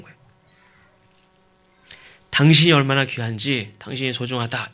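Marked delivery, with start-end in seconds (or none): 2.3-4.7 sincere cherishing. Shown as a demonstration. Husband telling his wife she is precious, sincerely. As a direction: tell them earnestly how precious they are. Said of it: "이렇게 얘기하는 게 아니라".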